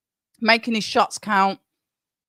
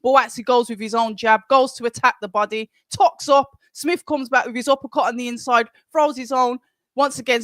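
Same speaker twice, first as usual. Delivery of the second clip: brisk ringside commentary; play-by-play commentary; 3 semitones higher than usual. Acted. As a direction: call the fight as it happens. Live fight commentary.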